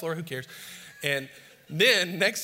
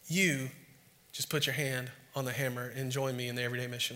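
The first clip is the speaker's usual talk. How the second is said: gentle invitation; 5 dB quieter than usual. Retold or imitated. God inviting us to join his mission, gentle and soft. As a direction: invite them in quietly.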